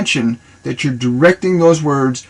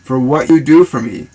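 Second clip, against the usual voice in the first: tender affirmation. Shown as a demonstration. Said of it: "you can talk to them like that".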